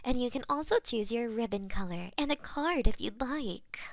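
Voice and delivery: ordinary delivery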